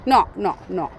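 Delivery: usual speaking voice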